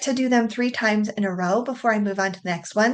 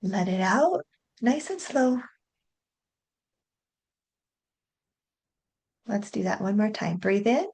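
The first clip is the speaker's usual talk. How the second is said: guided breathing; 3 dB quieter than usual. Shown as a demonstration. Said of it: "take a nice big deep breath".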